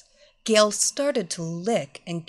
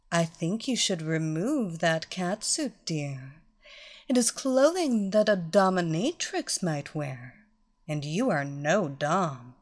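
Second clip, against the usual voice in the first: condescending mistress; 3 semitones lower than usual. Acted. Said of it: "Evelina remarked".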